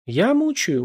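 high, indignant question. A narrator's reading. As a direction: bristle at the accusation. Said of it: "возмутилась Наталья". (возмущённо, с высоким тоном)

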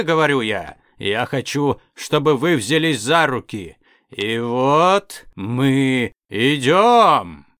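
hyped, warped DJ announcer; a slowed, distorted boss announcer. Acted. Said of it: "Искажённый голос звучал даже громче".

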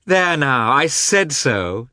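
high, loud and triumphant; joyful. A narrator's reading. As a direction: crow it joyfully, drawing out the end.

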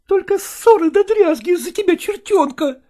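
a worn-out mother near tears; tearful mother. Acted. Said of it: "слезливо обратилась она".

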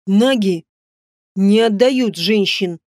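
slow, cold hissing threat; hissed. A narrator's reading. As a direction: hiss it slowly into his face. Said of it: "прошипел королю почти в лицо".

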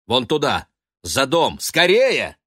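rising to a high loud urgent cry; alarmed pointing cry. A narrator's reading. Urging Ben to hurry.

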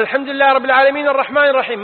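"الحمد لله رب العالمين الرحمن الرحيم" rattled off fast with no stop between verses; verses run together. Shown as a demonstration. Showing students an imam who never pauses, fast recitation. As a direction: rush straight from one verse into the next, fast. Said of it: "ما سكت بين الآيتين".

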